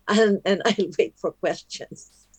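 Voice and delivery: laughing while talking. Real, not acted. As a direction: say it through a small laugh. Laughs while wrapping up talk.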